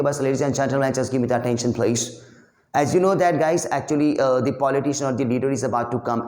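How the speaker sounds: mock speech. Shown as a demonstration. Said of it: "इस तरीके से कुछ भी स्पीच बोलेंगे".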